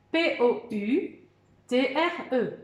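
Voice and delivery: slow, each letter said apart; spelled letter by letter. Shown as a demonstration. Teacher spelling poutre to the class, slow and even. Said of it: "On dit les lettres".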